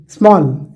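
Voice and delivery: "स्मॉल" as one single syllable. Shown as a demonstration. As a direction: say "स्मॉल" in one unbroken sound. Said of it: "आप एक ही बार में बोलते हो".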